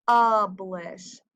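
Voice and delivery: "Publish" with the "uh" brought out; short U sound. Shown as a demonstration. Teacher showing the "uh" in "Publish", first vowel stressed. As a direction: lean on the first vowel, "PUH-blish". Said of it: "I hear that uh".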